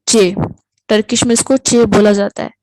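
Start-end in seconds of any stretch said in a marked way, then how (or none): 0.0-0.3 چے with a crisp ch and short e; teacher modelling چے as the Turkish letter ç; Turkish letter name. Shown as a demonstration. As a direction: say چے as Turkish ç, chay. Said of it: "اس کو ہم چے بولتے ہیں".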